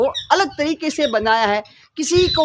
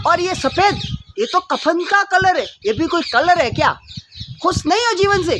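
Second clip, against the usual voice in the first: a fed-up swan snapping back; angry swan; 3 semitones higher than usual. Acted. Swan snaps at the flattering crow, mildly angry. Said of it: "हंस गुस्से में बोलता".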